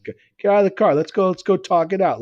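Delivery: put-on a drunk daring him to fight; imitating a drunk picking a fight; mock tough-guy challenge.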